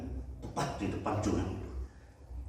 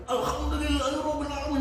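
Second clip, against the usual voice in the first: much higher, thrilled "Alhamdulillahirabbil alamin" with a put-on voice; gleeful cry. Traveler delighted as the camel speeds up, high gleeful voice. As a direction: blurt it out overjoyed. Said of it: "makin senang dia bilang".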